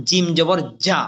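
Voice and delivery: vibrating, buzzed "যা"; vibrating jim. Shown as a demonstration. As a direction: say "যা" with a strong voiced vibration. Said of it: "vibration আছে". (কম্পন দিয়ে "যা" উচ্চারণ)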